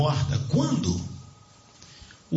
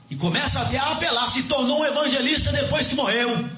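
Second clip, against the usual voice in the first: high-pitched, fervent sermon delivery; raised preacher's voice, pitched well up; impassioned preaching; 10 semitones higher than usual. Real, not acted. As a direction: preach it urgently to the congregation.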